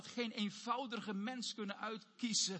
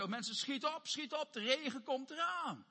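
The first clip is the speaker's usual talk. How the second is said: raised, urgent call to the crowd; urgent warning; 5 semitones higher than usual. Acted. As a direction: hurry them along as Noah warning people. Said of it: "hij waarschuwde de mensen". (dringend waarschuwend)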